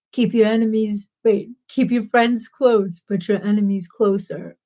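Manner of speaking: half-whispered attempt at a film gangster; hesitant, hushed movie-line impersonation; movie quote impersonation. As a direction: try a low-key movie impression, half whispered. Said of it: "to impersonate it".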